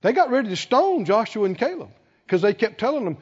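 ordinary talk, nothing marked

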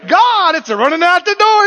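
high, loud alarmed shout; alarmed cry. Retold or imitated. Believer shouting to God as it floods out. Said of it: "And you're going".

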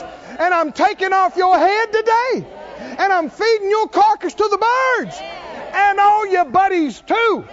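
David taunting Goliath. Retold or imitated. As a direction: taunt the giant with total confidence. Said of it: "What did David say?".

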